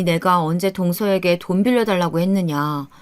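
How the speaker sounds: plain reading voice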